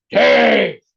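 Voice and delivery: drawn-out high signature call; catchphrase call. Real, not acted. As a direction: announce the bite like a showman. Tasting catchphrase.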